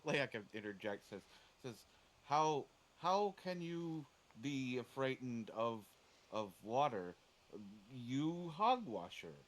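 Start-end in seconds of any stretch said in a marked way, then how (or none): 2.2-9.4 slow, louder, scornful disbelief; a hammed-up creature scoffing at fear of water; incredulous creature. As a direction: drag out the outrage, then the insult. Layak voiced, incredulous insult.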